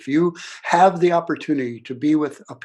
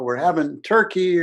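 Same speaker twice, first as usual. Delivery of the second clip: yelling out; 4 semitones higher, 4 dB louder than usual. Retold or imitated. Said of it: "we would all yell out".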